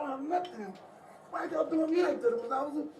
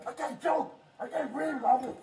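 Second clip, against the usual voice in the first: desperate pleading; 3 semitones higher, slower than usual. Real, not acted. Man gasping, pleading in car.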